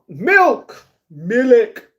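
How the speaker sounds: sudden high, loud exclamations; playful shouting. Pretend. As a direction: shout each one out on a high pitch. Blurts out a word twice, exclaiming.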